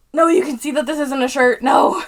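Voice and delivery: shout. Real, not acted. Protesting at someone off camera.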